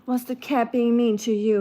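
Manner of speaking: cooing sympathy to a pet; indulgent, pitying pet voice; sympathetic pet talk. Real, not acted. Babying the pet that fell.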